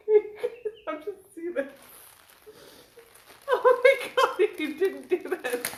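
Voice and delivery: excited shriek. Real, not acted. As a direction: shriek with delight at the shirt. Reacting to the gift.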